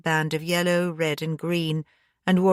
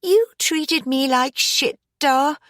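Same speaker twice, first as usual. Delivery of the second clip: higher, voiced angry outburst; indignant daughter, pitched up; furious whisper; 9 semitones higher than usual. A narrator's reading. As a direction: let the anger bubble into words. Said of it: "she whispered furiously".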